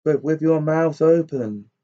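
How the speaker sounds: crying out. Acted. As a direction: raise a mock toast to the robbers. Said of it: "brandished the bottle ... and cried".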